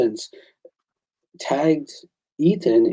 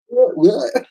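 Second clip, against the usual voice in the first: high-pitched, rising stunned questions; retold disbelief; 11 semitones higher than usual. Artist showing how he answered the offer, incredulous. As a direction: re-enact being floored by an offer. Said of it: "that's how I answered him".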